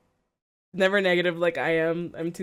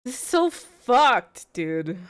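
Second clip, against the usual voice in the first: slow loud exasperation; 3 semitones higher, 3 dB louder, much slower than usual. Real, not acted. Outburst at the news.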